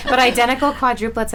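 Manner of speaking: laughs into the words; laughing. Real, not acted. Host amused by the quadruplets story, laughing. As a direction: break into a giggle then carry on.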